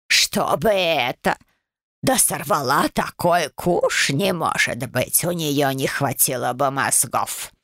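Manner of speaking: slow, wheezy scolding of a brat; a nasty old ghost hissing at the girl; wheezing old crone. Acted. Ghost sneers at the engagement. (прабабка сипло бранит правнучку)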